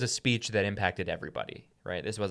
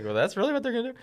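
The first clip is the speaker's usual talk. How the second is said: much higher, amused disbelief; mock gawking question; incredulous David; much faster than usual. David questioning the soldiers' offer, incredulous. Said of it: "he's just like".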